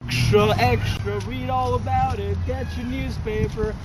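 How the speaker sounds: calling out to passersby; newsboy call. Acted. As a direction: hawk the papers.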